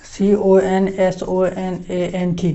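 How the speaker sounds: letters spelt out one by one, slowly; slow spelling. Shown as a demonstration. Teacher spelling consonant for students, slow and deliberate. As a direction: spell each letter so they can write. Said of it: "spelling out letter by letter".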